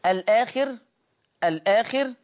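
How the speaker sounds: الآخر read with the lam carrying the hamza's vowel; Warsh transfer. Shown as a demonstration. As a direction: say الآخر as one glide, lam with fatha. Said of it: "يقرأ ورش بالنقل".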